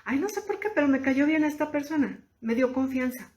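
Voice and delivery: high, light puzzled wonder; musing aloud. Pretend. Sudden liking for a stranger, musing aloud. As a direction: voice a pleasant surprise about someone. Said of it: "tú dices".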